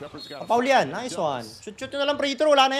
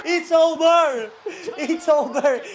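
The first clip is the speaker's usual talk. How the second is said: triumphant shout; 3 semitones higher, much slower than usual. Real, not acted. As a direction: shout the game finished, stretching each word. Declaring the game won. (mahaba at pasigaw na pagdiriwang)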